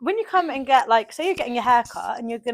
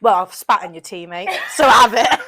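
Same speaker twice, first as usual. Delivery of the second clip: laughing retort; 3 semitones lower, 4 dB louder than usual. Pretend. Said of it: "imagined retort".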